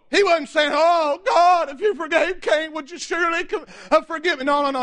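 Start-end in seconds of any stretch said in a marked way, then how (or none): 0.7-4.5 plea for mercy. Acted. Preacher showing what Lamech didn't say, mock pleading. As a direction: act out begging God for mercy. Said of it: "He wasn't crying for mercy".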